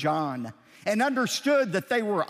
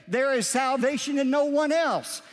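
preaching shout; 5 semitones higher than usual. Acted. Preacher quoting Paul emphatically.

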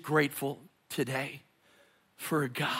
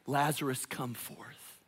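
soft call; 3 semitones lower, 7 dB quieter than usual. Acted. Quiet replay of the call.

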